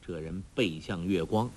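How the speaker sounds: ordinary delivery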